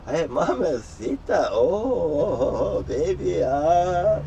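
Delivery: drawn-out, hammed-up crooning flirtation; playful flirting. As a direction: stretch out the oohs like a mock flirt. Acts out flirting with Spanish speakers.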